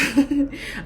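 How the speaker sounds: chuckle. Real, not acted. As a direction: let a little laugh slip out. Laughing at her own mishap.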